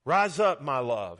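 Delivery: heartfelt, emphatic call to a beloved; loving call. Acted. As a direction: call them up with love. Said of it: "Love draws us".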